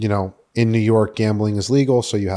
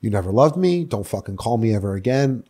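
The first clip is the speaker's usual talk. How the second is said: retold angry outburst. Son cutting off mom and dad, mock angry outburst. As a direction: act out cutting someone off in anger.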